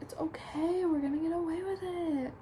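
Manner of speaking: lightly voiced gentle reassurance; calming reassurance. Ravi calming a panicking Pip, lightly voiced soothing. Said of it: "but he calms her down".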